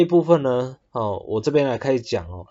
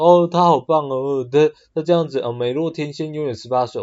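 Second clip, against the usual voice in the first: mock praise; 3 semitones higher, 3 dB louder than usual. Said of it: "夸赞她说". (略带夸张地慢慢吹捧她)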